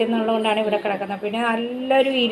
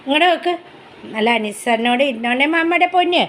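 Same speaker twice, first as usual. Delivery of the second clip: put-on high, sing-song, louder baby talk; high pet-talk voice; 5 semitones higher, 5 dB louder than usual. Owner playfully scolds her dog in high baby talk. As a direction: tease the dog like a small child.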